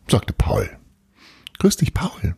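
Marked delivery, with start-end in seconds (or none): 1.6-2.3 put-on old woman voice. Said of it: "sagte Frau Wilhelm".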